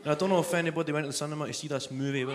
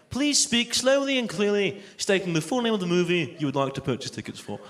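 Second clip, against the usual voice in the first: automated booking line. Acted. Booking line instructs the caller, automated-voice imitation. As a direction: imitate a recorded phone prompt, dropping in pitch. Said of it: "the automated cinema ticket booking line".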